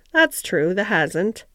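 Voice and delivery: subdued, mildly hesitant reply; slow, considering. Acted. Ben watches Mary and agrees, slow and considering. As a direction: let it out thoughtfully, in pieces. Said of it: "said Ben Weatherstaff slowly".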